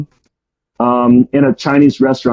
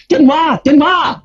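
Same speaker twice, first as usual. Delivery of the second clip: imitating a much higher voice calling "Denwa"; mock-call "Denwa" up high, short and falling; slower than usual. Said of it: "the Chinese person would start saying".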